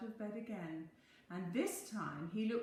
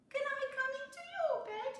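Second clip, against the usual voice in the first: high, fast little mouse plea; high squeaky question; pleading Little Mouse; 6 dB louder, faster than usual. A narrator's reading. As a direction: beg once more to come in. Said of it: "asked Little Mouse".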